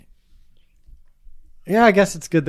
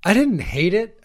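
put-on child voice; 9 semitones higher, 4 dB louder than usual. Voicing the child's reaction.

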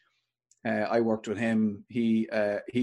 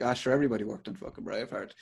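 quick, softer mock dismissal; unimpressed; 6 dB quieter, faster than usual. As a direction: brush it off like an unimpressed local. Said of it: "They weren't ter-, terribly impressed".

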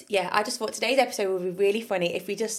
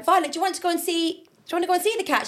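coaxing friend; 8 semitones higher, faster than usual. Retold or imitated. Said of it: "Shiv, she went".

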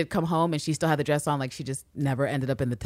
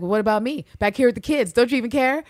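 higher, complaining neglected-wife voice; mock aggrieved; 6 semitones higher, 4 dB louder than usual. Neglected wife to husband, mock aggrieved. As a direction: protest like the spouse left behind.

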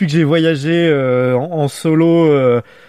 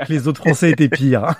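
words said through a laugh; giggling while delivering the punchline. Real, not acted. Joke about French accents. (en riant)

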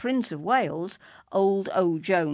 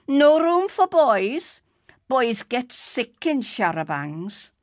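put-on grumpy old man; 6 semitones higher, 7 dB louder, slower than usual. A narrator's reading. Old man refusing the boy.

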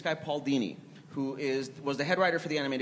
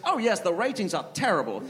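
British accent impersonation, hammed up; Michael Caine; 3 semitones higher than usual. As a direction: cheerfully agree in mock British. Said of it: "he's gonna talk like Michael Caine".

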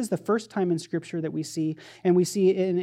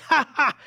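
sudden high, loud "ha ha!"; mock scare "ha ha"; 7 semitones higher, 5 dB louder than usual. Preacher pretending to startle the scared disciples, mock scare. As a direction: jump out with a pretend gotcha shout. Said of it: "I'm taking this to scare".

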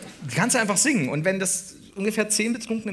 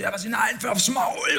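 mock angry shout; 5 semitones higher than usual. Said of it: "motzt die an".

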